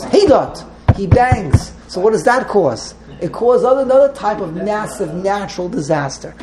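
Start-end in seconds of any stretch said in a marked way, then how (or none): 0.0-0.6 acted cry of frustration, higher and louder; frustrated outburst. Teacher voicing God banging in frustration, frustrated outburst. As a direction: call it out high and loud, mildly exasperated. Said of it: "he's frustrated, he goes".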